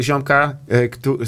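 usual speaking voice

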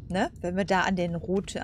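ordinary talk

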